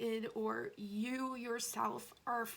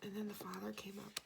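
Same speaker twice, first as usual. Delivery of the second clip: whisper; 7 dB quieter, faster than usual. Real, not acted. Quiet tarot reading aside.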